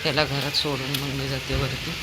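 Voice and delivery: high loud call, urging him home; calling the dog home. Real, not acted. Owner urging her dog to go home in the rain, high and loud.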